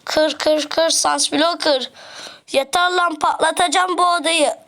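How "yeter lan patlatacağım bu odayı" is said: fed-up outburst. Real, not acted. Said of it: "birazcık çok sinirlendik".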